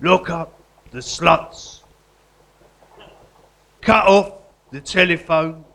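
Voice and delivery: mock-solemn graveside poem; poem recital. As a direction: recite it like a grieving elegy.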